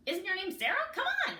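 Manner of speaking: very high squeaky ant; tiny ant voice. A narrator's reading. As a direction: squeak impatiently at Sarah. The tiny ant talks again.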